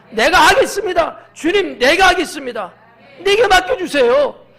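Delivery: high, loud volunteering plea; fervent confession. Acted. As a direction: declare it boldly before the Lord. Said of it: "마음을 열고 주님 앞에 고백하는 거야". (높고 힘찬 자원의 고백)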